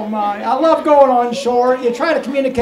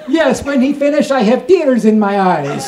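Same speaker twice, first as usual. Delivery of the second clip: loud Romanian woman, accent put on; Eastern European accent; 6 dB louder than usual. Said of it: "in her beautiful Eastern European accent".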